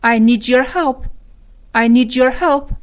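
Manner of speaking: "need your" linked as "nee-jer". Shown as a demonstration. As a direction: glide "need your" together with a j. («need your» سرهم با صدای ج)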